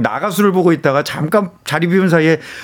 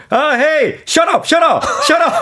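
much higher-pitched, repeated yelling; mock loud shout; 12 semitones higher, much slower than usual. Caller blurting at a meeting with overseas buyers, mock loud shout. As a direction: call it out like an urgent order, hammed up. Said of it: "큰 소리로".

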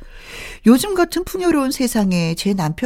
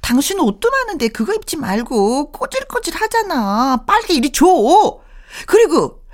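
higher, exasperated nagging at husband; exasperated nagging wife; 5 semitones higher than usual. Retold or imitated. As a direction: nag him, fed up.

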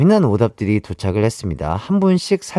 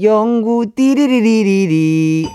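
Yeong-gu imitation; 5 semitones higher, slower than usual. Imitates comedian Yeong-gu's catchphrase.

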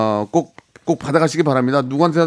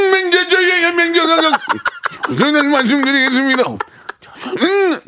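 much higher, slow; high squeaky voice; 13 semitones higher than usual. Pretend. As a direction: squeak it like a cartoon. Host mimics caller's pitch-shifted greeting.

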